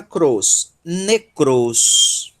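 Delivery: "Necros" with the weight on the final "cros"; "Necros" said slowly, last syllable stressed and held. Shown as a demonstration. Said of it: "Sílaba tônica".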